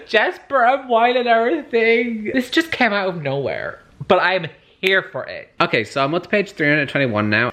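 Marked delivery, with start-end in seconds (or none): 0.1-5.5 excited squeal. Real, not acted. Excited about fictional couple.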